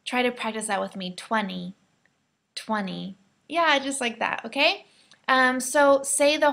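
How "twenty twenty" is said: twenty said as twenny; American twenny; T dropped twenty. Shown as a demonstration. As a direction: drop the T in twenty. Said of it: "we actually take out the T sound".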